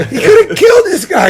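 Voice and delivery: very high, mock-frantic scolding; retold yelling. Witness telling off those responsible for the accident, high mock yell. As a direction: imitate a witness yelling in outrage. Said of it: "He's yelling".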